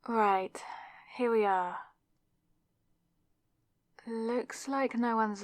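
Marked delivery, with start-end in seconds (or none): 0.1-1.8 hushed whisper, checking no one hears. Acted. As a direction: breathe it out secretly. Sneaking into an empty place.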